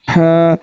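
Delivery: हा from the middle of the throat. Shown as a demonstration. Teacher showing the correct throat h. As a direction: breathe हा out of the mid throat. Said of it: "हलक के दरमियान वाले हिस्से से".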